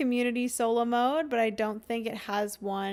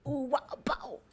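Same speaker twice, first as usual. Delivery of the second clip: whispered song bit; 4 dB quieter, faster than usual. Real, not acted. Streamer replaying the silly song to herself, whispered through laughter. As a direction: breathe it out under a giggle.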